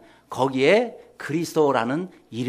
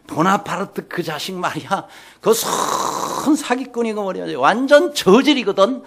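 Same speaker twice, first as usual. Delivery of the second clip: higher-pitched, loud mock soldier's rant; loud grumbling; 4 semitones higher, 4 dB louder than usual. Soldiers cursing Bonaparte inside a tent, loud indignant grumbling. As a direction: rail about someone behind their back, voice climbing. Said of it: "큰 소리가 나는데".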